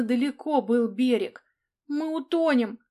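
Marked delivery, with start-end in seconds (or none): 1.9-2.8 a panicked squeal, louder and higher; shrill frightened cry. A narrator's reading. Lyubochka in the sinking boat, frightened shriek. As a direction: shriek that we'll all drown. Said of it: "визгливо вскрикнула Любочка".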